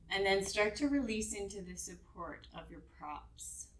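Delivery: calm, unhurried meditation guidance; guided meditation. Real, not acted. Yoga teacher settling students onto their props, guided meditation voice. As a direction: ease them gently down into rest, leaving space between phrases.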